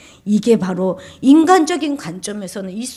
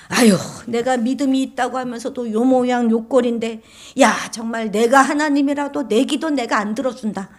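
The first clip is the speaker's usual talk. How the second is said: raised, fed-up talk to oneself; acted-out dismay at yourself; exasperated self-reproach; 4 semitones higher, 4 dB louder than usual. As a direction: grumble at your own failings, a bit higher. Acts out self-disgusted believer's thought.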